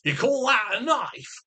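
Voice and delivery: hammed-up, drawn-out movie quote; playful swaggering catchphrase; film-line impression. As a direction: stretch out the famous line with mock bravado. Quoting Crocodile Dundee film line.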